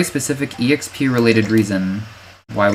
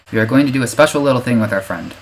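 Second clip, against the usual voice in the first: kindergarten teacher voice. Shown as a demonstration. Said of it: "I'm talking like a kindergarten teacher".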